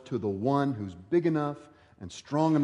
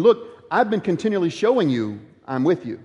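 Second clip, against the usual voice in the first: louder, insistent reassurance; God's rebuke; 4 semitones higher, 5 dB louder, faster than usual. Retold or imitated. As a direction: press the point as God. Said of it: "God tells them".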